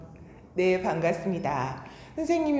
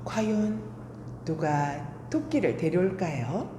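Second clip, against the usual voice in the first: put-on storytelling to children.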